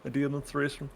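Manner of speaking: high-pitched mock player voice; mock after-fail plea. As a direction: imitate a player pleading late. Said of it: "So you can't say after you fail".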